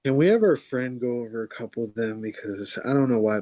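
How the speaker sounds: breathless and rushed; hurried, short of air; out of breath. Real, not acted. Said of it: "I'm actually kinda out of breath".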